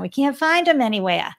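thick Boston accent on the quote. Shown as a demonstration. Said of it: "I should have done that in a Boston accent".

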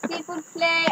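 mock French, soft; s'il vous plaît in hammy French; French accent. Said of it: "a French accent".

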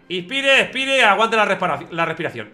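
commands fired off one after another; rushed technician commands. Retold or imitated. Technician in the MRI tube rushing the breathing commands, hurried. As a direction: rattle off the breathing orders in a rush. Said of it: "el tío decía".

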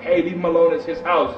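crowd calling out. Acted. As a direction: call out to break up the fight. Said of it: "They're like".

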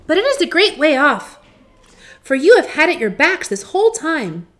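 high, loud mouse queen; squeaky little voice. A narrator's reading. Queen of the Mice advising lost Dorothy, squeaky. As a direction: pipe up like a small mouse. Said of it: "in her squeaky little voice".

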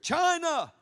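sudden high, loud cry of a country's name; prophetic shout. Retold or imitated. Preacher retelling the prophet's cry on the falling plane, shouted. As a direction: fling the word out like a prophecy. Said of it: "I heard in my spirit".

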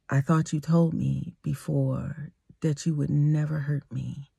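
quiet, even retold line; soft voice. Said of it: "in a soft voice".

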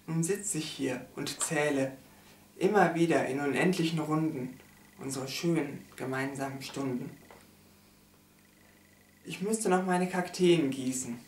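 solemn, measured poem reading with pauses; poem recitation. Acted. Reading a poem about a lost love, solemn recitation. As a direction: recite a mournful poem line by line.

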